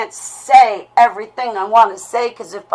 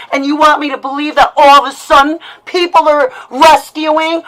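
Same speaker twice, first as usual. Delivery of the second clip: angry rant; 5 semitones higher, 4 dB louder than usual. Real, not acted. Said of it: "what you just heard is a lash out".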